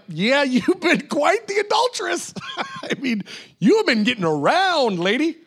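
playful mocking scold, half-laughing; mock teasing Jesus. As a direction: rib her with a laugh in your voice. Jesus teasing the adulterous woman.

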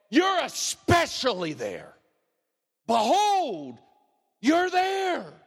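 ringing pulpit proclamation; preaching at full force. Acted. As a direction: build to a shouting climax of praise. Preaching climax on God's presence.

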